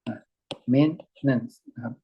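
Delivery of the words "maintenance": "maintenance" with the ten held in the throat, a small catch; "maintenance" with a glottal catch where the ten would be; swallowed ten. Shown as a demonstration. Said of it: "ten นี่มันจะอมๆอยู่ในคอ".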